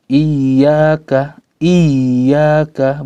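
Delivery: iyyaka with the doubled y pressed; pressed tasydid. Shown as a demonstration. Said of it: "Huruf ya yang bertasydid". (iyyaka, huruf ya ditekan)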